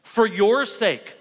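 slow and weighty, leaning hard on "your"; an earnest plea, "For your sake" drawn out and stressed on "your"; emphatic. Real, not acted. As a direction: press every word of "For your sake", stretching "your". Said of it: "I'm gonna say it extremely emphatically".

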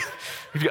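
short, soft voiceless puff; hushed comic sound effect; made-up appearance sound. Shown as a demonstration. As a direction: imitate someone quietly popping into the room. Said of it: "appearance sound".

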